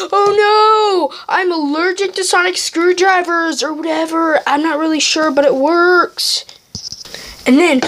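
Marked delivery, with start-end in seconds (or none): 0.1-6.4 panicky whine. Retold or imitated. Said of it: "Woody will be like".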